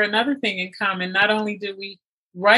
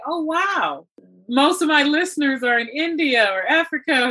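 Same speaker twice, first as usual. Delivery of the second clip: amazed reaction; 5 semitones higher than usual. Retold or imitated. Retelling own surprised reaction.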